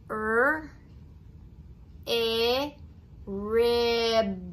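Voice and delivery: each sound "n", "a" said separately, then blended into "nut". Shown as a demonstration. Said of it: "say the blend and then add".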